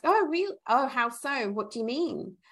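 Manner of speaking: lightly acted curious questions, starting high; tactful curiosity. New starter tactfully questioning a coworker's comment, mock-curious. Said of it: "just curiosity".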